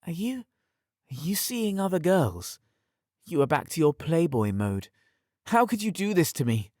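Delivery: high, hurt, blaming voice; accusing. Acted. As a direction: throw the blame at him. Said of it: "she blamed".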